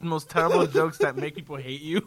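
real laughter breaking up the words; laughing while talking. Real, not acted. Host explaining his love of cheesy jokes, laughing. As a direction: talk through a loud fit of laughs. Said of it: "I'm laughing by proxy".

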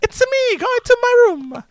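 very high, slow cartoon Italian accent; Mario accent. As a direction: drag it out in a squeaky Mario-style Italian accent. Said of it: "I tried to do a Mario accent".

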